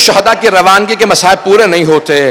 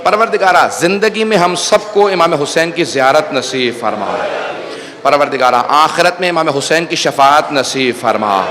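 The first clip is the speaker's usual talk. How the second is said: soft, lowered prayer with a lift of pleading; earnest supplication; 6 semitones lower, 5 dB quieter than usual. Acted. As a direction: plead gently to God, still subdued.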